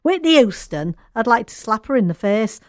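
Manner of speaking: lightly mimicking her American twang; American accent impression. Host repeats the quote doing the singer's American accent. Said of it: "I am doing the accent there".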